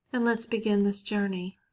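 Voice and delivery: unhurried guided-meditation voice with long pauses. Acted. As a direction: lead listeners gently inward, leaving space between phrases.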